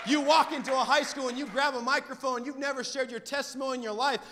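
driving, emphatic sermon delivery; punchy pulpit proclamation; impassioned preaching. Real, not acted. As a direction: preach it with rising conviction. Preaches with force.

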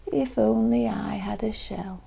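mildly sighed, wishful slug; wistful sigh. Acted. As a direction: sigh it out with a touch of longing. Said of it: "he sighed".

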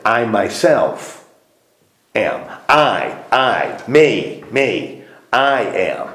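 slow, emphatic "I myself", with a pause before "am". Shown as a demonstration. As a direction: stress on "I", set apart and repeated. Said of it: "So you're making it emphatic".

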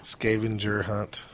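slow "Scavenger" with SKAY at the start; Skaven pronunciation. Shown as a demonstration. Podcaster insisting to teasing friends, "Scavenger" said as SKAY-ven-jer. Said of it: "They said gur".

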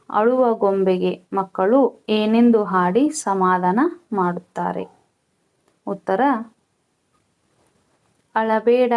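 slow, measured textbook reading; dictation read-out. Real, not acted. Teacher reading questions and answers to pupils, measured dictation. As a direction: read it out phrase by phrase for pupils to copy.

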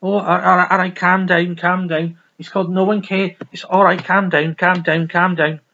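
lightly attempted Scouse patter; badly faked Liverpool accent, repetitive; mock Liverpool accent. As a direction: put on a rough Scouse accent. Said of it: "it's a fucking Liverpool accent".

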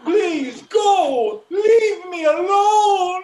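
scared tearful yell; panicked shouting. Acted. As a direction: shout it, crying. Brother begging in panic.

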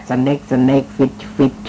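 snake snake fish fish said slowly, word by word; mock-basic English. Shown as a demonstration. Self-mocking host on his poor English, slow. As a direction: plod through snake snake fish fish like a beginner. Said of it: "ภาษาอังกฤษของผมก็แค่".

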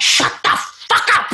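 high, slow, drawn-out outburst; hammed-up fed-up retort; mock exasperation. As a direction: spell out your annoyance word by word. Exasperated character snaps back.

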